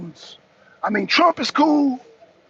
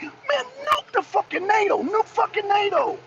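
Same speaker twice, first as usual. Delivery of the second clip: fed up; 11 semitones higher than usual. Real, not acted. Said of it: "I'm looking at this shit like".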